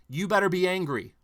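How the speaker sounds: hammed-up demand to feel angry; mock command to be angry. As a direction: bark it as the hidden order. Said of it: "Might as well read".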